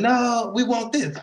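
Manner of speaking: high, drawn-out mock yell; stretched-out pretend scream without much volume; retold scream. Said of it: "I'm back there screaming".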